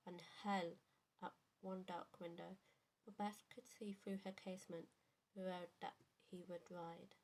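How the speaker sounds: measured poetry reading with pauses between lines; poem recitation. Acted. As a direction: recite a narrative poem, line by line. Reads favourite poem aloud.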